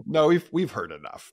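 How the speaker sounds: playful loud cutoff of the guest; mock stern cutoff. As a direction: shut him down in jest, loud. Joking cutting off the guest.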